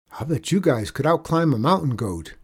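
butter up the climbers; flattering boy. Acted. Boy flattering men on the roof, admiring.

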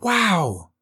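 high, small exclamation of wonder; tiny flower voice, amazed; awed flower. A narrator's reading. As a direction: breathe it out high, overcome. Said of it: "in a voice shaking with".

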